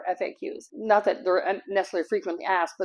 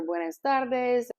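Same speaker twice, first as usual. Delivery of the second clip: slow friendly greeting; 4 semitones higher, much slower than usual. Retold or imitated. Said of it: "greet with a smile and say".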